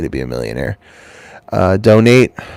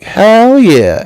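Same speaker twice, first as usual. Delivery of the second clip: higher, louder cocky cheer; mock pumped cheer; 12 semitones higher, 4 dB louder than usual. Employee hyped after the boss's praise, cocky cheer. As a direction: strut off cheering yourself. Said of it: "you're walking like".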